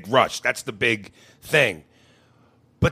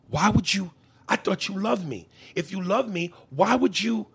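put-on offended girlfriend; 5 semitones higher than usual.

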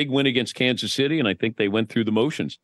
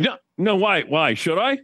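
imitating a high, jumpy nervous reply; mock panicked; 7 semitones higher than usual. The newcomer caught off guard, in mock panic. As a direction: squeak it out in sudden worry. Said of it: "and he's like".

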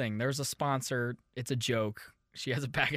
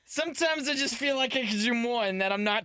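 hammed-up mother reading; 6 semitones higher than usual. Host as the mother reads a marriage post aloud, hammed up. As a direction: read the post as a hammy mom. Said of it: "Anyway, Missus Weiss".

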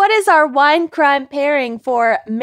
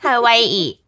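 laughing; faster than usual. Real, not acted. Joking about Hawaii, laughing.

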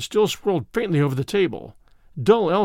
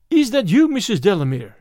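higher, louder startled query; startled question; 3 semitones higher, 5 dB louder than usual. Acted. Sitter questions the entranced medium, startled. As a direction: call out in mild alarm to the medium.

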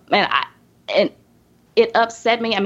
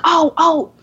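mock sugary clerk; 6 semitones higher than usual. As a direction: imitate her sudden syrupy turnaround. Clerk apologising, voiced by teller.

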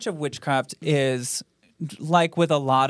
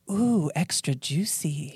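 breathy titillated whisper; slower than usual. Shown as a demonstration. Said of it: "Is it A".

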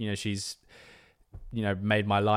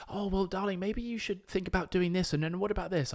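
mum advising; 10 semitones higher than usual. Retold or imitated. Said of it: "my mum was saying".

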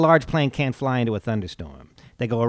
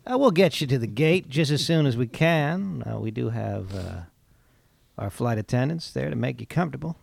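soft, calm airline captain announcement; pilot voice; 3 semitones lower, 6 dB quieter than usual. Shown as a demonstration. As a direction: talk like a pilot on the intercom. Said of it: "my pilot voice?".

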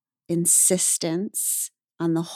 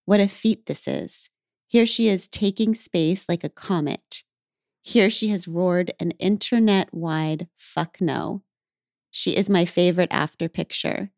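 reading her poem aloud with feeling. Acted. Host reads the guest's poem aloud to her, poetic reading. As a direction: read the lines like a poem, unhurried. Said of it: "But you wrote".

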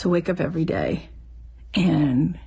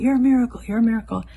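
calling out; 5 semitones higher, much faster than usual. Retold or imitated. Man calling after her through window.

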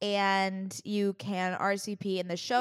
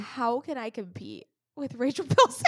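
mock despair; 3 semitones higher than usual.

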